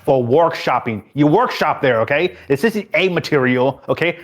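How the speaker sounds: a lightly voiced weary boss lecturing; exasperated boss. Boss scolding clown employee Grouchy, exasperated. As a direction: scold him like a tired manager who's said it all before.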